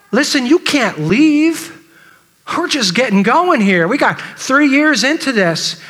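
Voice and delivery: acted incredulous disciple, pitch often lifted; shocked protest. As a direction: plead in mild disbelief at being left. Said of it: "the audible gasp from the disciples to say".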